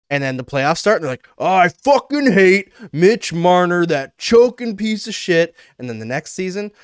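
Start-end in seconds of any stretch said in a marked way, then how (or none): 1.4-5.5 loud, slow, drawn-out fan rant; mock fury. Imitating fans turning on their player in playoffs, mock fury. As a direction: rage like a fed-up fan, hammed up.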